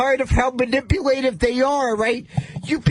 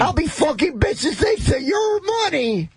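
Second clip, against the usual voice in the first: swearing tirade; 3 semitones higher than usual. Acted. Taunting hecklers after refund demand.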